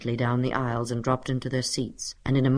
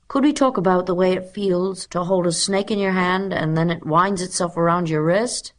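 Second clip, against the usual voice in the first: put-on higher-pitched boy asking keenly; schoolboy pupil; 5 semitones higher, 4 dB louder than usual. A narrator's reading. Voices pupil Arthur Greenlaw.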